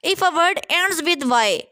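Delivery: spelling rule read slowly for students; slow dictation. Shown as a demonstration. Teacher to students reading the rule, slow dictation. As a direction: dictate each word slowly and evenly.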